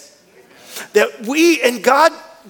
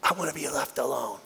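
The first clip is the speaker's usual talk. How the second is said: lower, much softer, a bit quick; softly voiced Jesus; 7 semitones lower, 12 dB quieter, faster than usual. Jesus hiding in a house at Tyre, lower and soft. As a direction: murmur it like wanting privacy. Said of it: "it's like Jesus is saying".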